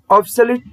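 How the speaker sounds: "ऑब्सोलीट" said as OB-so-leet; careful pronunciation. Shown as a demonstration. Teacher showing the class how to say obsolete, syllable by syllable. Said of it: "इसे ऑब्सोलीट पढ़ेंगे".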